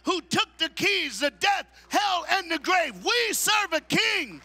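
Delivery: loud, slow, high, shouted preaching; full-force preaching. Acted. Preacher rallying the men's conference, loud slow shouting preach. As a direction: build it like a rallying cry.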